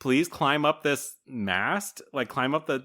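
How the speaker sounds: mock captain order. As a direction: drag out a pompous order.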